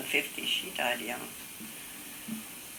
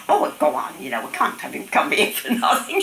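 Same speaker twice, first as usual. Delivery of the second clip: high, louder insistent urging; coaxing grandmother; 7 semitones higher, 4 dB louder than usual. Retold or imitated. Grandmother urging her friend to see the dentist, high and insistent. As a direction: imitate someone talking a friend into it.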